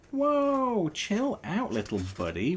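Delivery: high, cool warning to calm his friend. A narrator's reading. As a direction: ease him down, whoa. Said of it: "warned the hedgehog".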